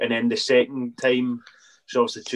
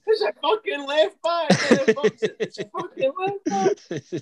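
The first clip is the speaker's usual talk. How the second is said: very high, drawn-out mock cry; imitated video voice; slower than usual. Footballer mimicking the viral match video, in a slow, very high mock cry. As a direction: stretch it out way up high, mimicking the clip. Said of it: "it's a video and it's like".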